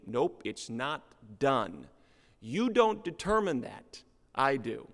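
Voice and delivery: stern coach, slow then barking; gym coach. Retold or imitated. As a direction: lay down the law like a drill coach. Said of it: "this was the way it happened".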